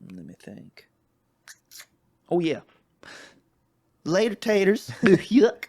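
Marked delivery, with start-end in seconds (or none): 2.3-5.6 high, loud goofy squeal; silly high voice. Pretend. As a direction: squeal it like a cartoon. Silly sign-off.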